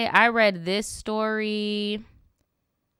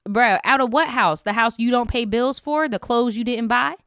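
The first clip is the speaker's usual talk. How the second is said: loud rant; 4 dB louder than usual. Real, not acted. Ranting at the boyfriend.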